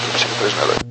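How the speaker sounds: whispered, almost unvoiced readback; quiet radio callout. Real, not acted. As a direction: let the callsign fade to a breath. Pilot's radio readback trailing off.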